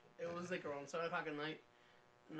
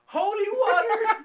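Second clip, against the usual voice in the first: much higher, loud, slow declaration; loud proclamation; 17 dB louder, slower than usual. Retold or imitated. Stepping aside to show cops the fountain, loud slow shout. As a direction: announce it grandly, dragging it out. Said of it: "and I just said".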